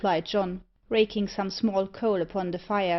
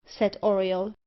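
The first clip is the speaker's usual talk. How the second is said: usual speaking voice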